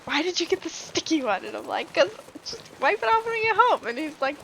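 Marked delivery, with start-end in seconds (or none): 0.1-1.4 high, mock-indignant husband imitation; retold annoyance. Husband asking wife about the sticky bottle, mock annoyed. 1.9-3.9 much higher-pitched protest; retold protest. Wife answering annoyed husband, high-pitched retold protest.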